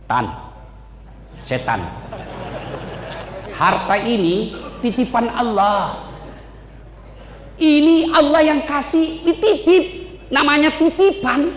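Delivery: steady, then rising to a shout on the last word; Job's calm reply. Acted. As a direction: answer the devil firmly, building up. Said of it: "Apa kata Ayub?".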